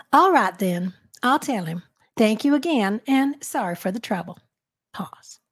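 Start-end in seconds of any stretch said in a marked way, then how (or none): 0.1-4.4 put-on Southern accent. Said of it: "let me compliment you on your Maybelle Jackson".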